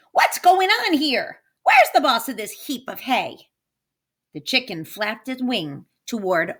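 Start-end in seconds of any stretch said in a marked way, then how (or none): 0.1-3.5 indignant witch. Acted. Witch demands the boss.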